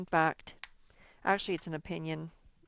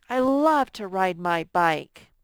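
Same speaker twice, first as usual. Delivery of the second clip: loud, slow, "love" leaned on hard; teacher modelling excitement for a class; excited exclamation; 8 dB louder, slower than usual. Shown as a demonstration. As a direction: show the kids how strong feeling sounds. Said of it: "showing strong feeling".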